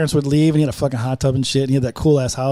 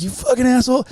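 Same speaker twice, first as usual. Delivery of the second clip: mad curse; 6 semitones higher than usual. Retold or imitated. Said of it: "I was so mad".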